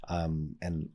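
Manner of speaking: put-on soft, tender apology to a child; a parent soothing a child after being firm; gentle repair. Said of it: "it's like".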